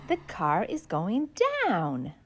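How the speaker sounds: low, soft voice sinking on "down"; going down. Shown as a demonstration. Teaching kids down, voice dropping low. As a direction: sink low with the car on "down".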